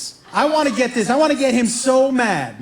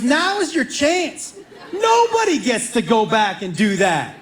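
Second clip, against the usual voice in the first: egging on brother; slower than usual. Retold or imitated. Brother urging, voiced.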